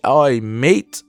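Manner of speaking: a brief British "mate" impression; British accent. Reviewer illustrating the game characters' accent, lightly imitated British. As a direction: toss in a lightly British catchphrase. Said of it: "you know, British".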